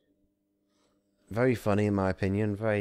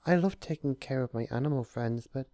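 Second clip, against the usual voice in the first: much higher gentle cheerful voice; cheerful Fluttershy; 8 semitones higher than usual. Acted.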